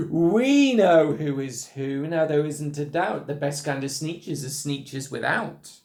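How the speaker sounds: parade it out like a chant of victory; proud shout. Acted. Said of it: "they let out a shout".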